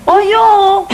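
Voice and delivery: sudden high delighted exclamation; surprised cry. Acted. Surprise at the landlord's gift.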